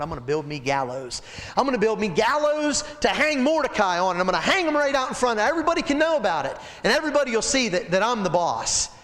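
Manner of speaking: high, fast bragging; boastful Haman. Acted. Haman brags to his wife, fast and high. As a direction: brag about the gallows.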